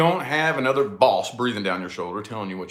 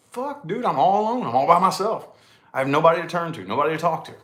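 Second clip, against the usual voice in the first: self-pitying lament; 6 semitones higher, 3 dB louder than usual. Retold or imitated. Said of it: "And I was like".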